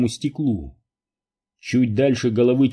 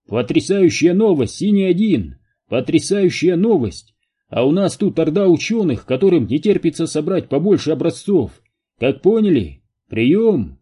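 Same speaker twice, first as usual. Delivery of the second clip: higher-pitched, thrilled radio report; excited radio call; 5 semitones higher, 4 dB louder than usual. Acted. Взволнованный радиовызов, голос заметно выше. (взволнованный вызов по рации)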